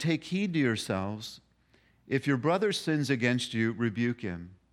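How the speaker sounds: slow, deliberate reading.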